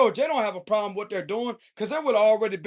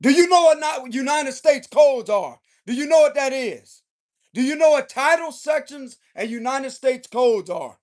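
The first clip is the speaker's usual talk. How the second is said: irritated telling-off with punched key words. Acted. Tarot reader voicing the King of Swords' warning, irritated. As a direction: lay down the law, fed up. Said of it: "but he's irritated".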